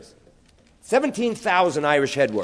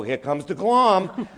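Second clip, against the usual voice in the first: mother teasing; 5 semitones higher, much slower than usual. Retold or imitated. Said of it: "My mother used to go".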